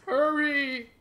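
high, loud yell to hurry; urgent shout. Real, not acted. Player urging on mid-game, urgent shout.

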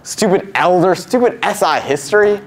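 peeved rant, rising in pitch; annoyed grumbling. Acted. Grumbles alone about failed plan.

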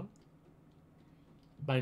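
ordinary delivery

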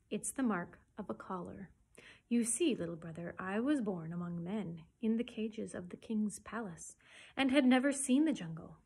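measured storybook telling; expressive read-aloud, easing down after a strong start; story narration. A narrator's reading. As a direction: read the panther's tale aloud with clear emphasis. Reads Bagheera's life story aloud.

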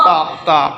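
two knocks like stones striking; stone click imitation. Shown as a demonstration. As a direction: knock out taak taak. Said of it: "দুটি পাথরের সংস্পর্শে যে আওয়াজ". (পাথর ঠোকার আওয়াজের নকল)

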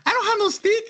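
mocking the stick woman in a high falsetto; Consuelo impression. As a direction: squeak out the denial like a cartoon maid. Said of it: "she was like the Consuelo from Family Guy".

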